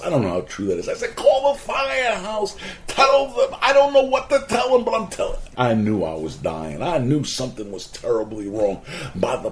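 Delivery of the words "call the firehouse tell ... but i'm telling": urgent. Retold or imitated. Dying, telling wife to call.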